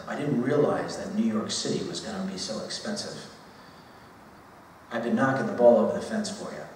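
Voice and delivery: lightly mock a visa worker pleading for a raise; sarcastic impression. Boss imitates an Irish visa worker asking for a raise, mildly sarcastic. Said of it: "I'm gonna be somewhat sarcastic".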